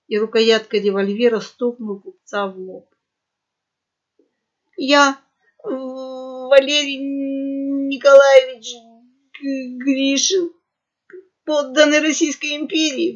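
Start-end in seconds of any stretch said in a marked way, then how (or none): 4.8-13.1 slow, higher, quavering wail. A narrator's reading. Frightened merchant giving his name to pirates, wailing. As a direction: plead your name in panic. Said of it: "взвыл тот".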